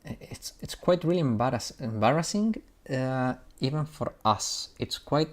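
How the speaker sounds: put-on halting, faltering British accent; attempted British accent. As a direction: stumble through it in amateur British. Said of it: "I cannot do the British accent and read".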